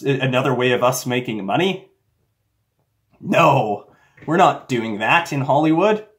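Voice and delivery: hammed-up incredulous scoffing; mocking the audience. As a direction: talk down to gullible viewers. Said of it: "they're also making fun of you".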